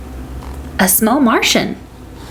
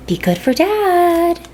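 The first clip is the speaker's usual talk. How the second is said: mom voice; 9 semitones higher, slower than usual. A narrator's reading. Mom parting words.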